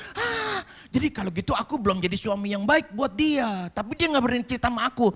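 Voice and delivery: loud, high-pitched outburst of dismay; acted dismay. Preacher reenacts his dismay at himself. (seruan kecewa yang dramatis, keras dan tinggi)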